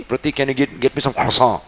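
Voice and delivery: put-on mild French accent, "croissant" said krwa-sõ from the throat; lightly doing the French friend's accent; a hint of a French friend asking in his accent. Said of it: "कुछ फंस गया है क्या तुम्हारे गले में".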